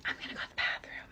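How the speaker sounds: playful, hurried whisper; quick, intimate whisper into someone's ear. Shown as a demonstration. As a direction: whisper it like a little secret. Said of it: "whispering in their ear".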